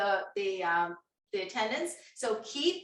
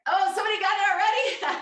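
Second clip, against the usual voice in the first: surprised; 10 semitones higher, 7 dB louder, faster than usual. Real, not acted. Host surprised by quick answer.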